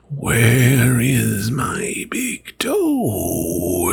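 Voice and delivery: slow, stretched moan, lightly voiced; ghostly groan. Ghost at the back door, slow creeping groan. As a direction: drag out each word in a hollow moan. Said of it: "it groaned".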